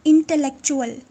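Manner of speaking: इंटेलेक्चुअल said loud and clear, falling at the end; pronunciation model. Shown as a demonstration. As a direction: model इंटेलेक्चुअल firmly for learners. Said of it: "pronunciation भी साथ साथ सीखनी है".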